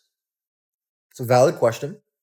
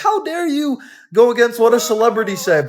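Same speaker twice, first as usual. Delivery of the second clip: mock indignation; 5 semitones higher, faster than usual. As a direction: imitate a scandalized fan. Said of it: "everyone would be like".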